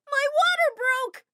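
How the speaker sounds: high, loud, slow labour cry; panicked cry. Acted. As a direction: cry out in alarm from the window. Mary in labor calls out.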